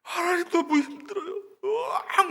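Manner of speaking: high, sobbing cry to God; sobbing plea, voice cracking; acted crying prayer. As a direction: wail it out like a broken woman. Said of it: "막 운 거예요".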